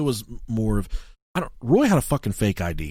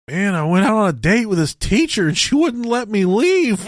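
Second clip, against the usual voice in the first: higher, lightly voiced buddy; imitating the roommate; 9 semitones higher, 5 dB louder than usual. Roommate explaining his date, lightly imitated. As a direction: tell it like it was a hostage situation. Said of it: "He's like".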